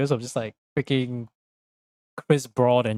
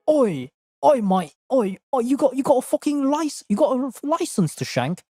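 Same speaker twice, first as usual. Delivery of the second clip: mock British officer; 11 semitones higher than usual. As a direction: bark it like a silly bobby. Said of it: "we're like".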